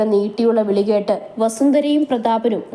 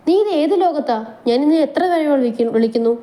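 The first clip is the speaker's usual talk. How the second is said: higher, mildly exasperated husband; 5 semitones higher than usual. Acted. Manu asks Mahi where her mind is, higher. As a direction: call her back from daydreams.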